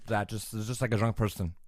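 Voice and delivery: put-on slurred drunk voice. Shown as a demonstration. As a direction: slur the words like a drunk. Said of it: "your drunk is really good".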